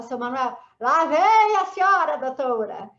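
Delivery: loud, high teasing hello; playful greeting. Retold or imitated. To the security guard Seu Manuel, a loud, teasing greeting. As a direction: hail the guard cheerfully. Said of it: "Eu falava".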